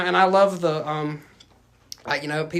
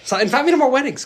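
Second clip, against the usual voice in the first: higher and louder, laughing through the words; laughing plea; 8 semitones higher, 5 dB louder than usual. Real, not acted. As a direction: laugh while begging to be invited. Joking plea for wedding invites.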